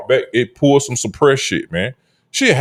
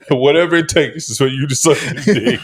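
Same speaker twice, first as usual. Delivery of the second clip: laughing parody of condescending concern; mock-supportive, talking down. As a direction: imitate a patronizing pep talk, breaking into laughter. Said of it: "that's the tone".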